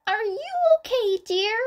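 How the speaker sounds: high, tender grandmotherly concern; gentle. A narrator's reading. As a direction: coo over the sick child. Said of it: "Chiyo asked so much more gently".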